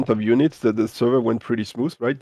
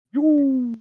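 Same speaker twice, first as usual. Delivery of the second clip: excited; 13 semitones higher than usual. Real, not acted. Watching a funny missile replay.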